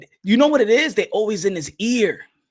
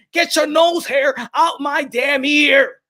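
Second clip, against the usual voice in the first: mock shout at Ellerbe; 3 semitones higher, slower than usual. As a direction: shout him out of your ear. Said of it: "it's time for Gervonta Tank Davis to tell".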